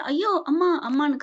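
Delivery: retold cry out. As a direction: yelp for mother in mock pain. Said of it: "கத்த". (வலியில் கத்துவது போல)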